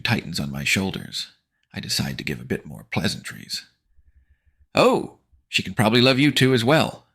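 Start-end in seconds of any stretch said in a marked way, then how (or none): 4.7-7.1 high, louder fake pleasantness; syrupy sarcasm; mock sweet offer. Narrator sarcastically offering to the bullies, fake sweet. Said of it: "I offer".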